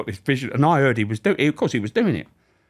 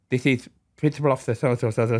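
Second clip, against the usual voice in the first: Yorkshire lisp impression; 4 semitones higher than usual. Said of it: "Yorkshire with a lisp".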